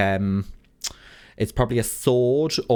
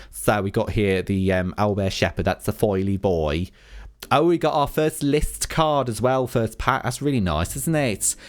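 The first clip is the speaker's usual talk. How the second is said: put-on light boss-babe Essex accent. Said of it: "requested that I do everything in an Essex accent".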